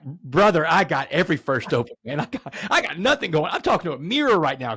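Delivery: a touch of giddy excitement; excited reply. Retold or imitated. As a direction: jump at the offer. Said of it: "And I'm like".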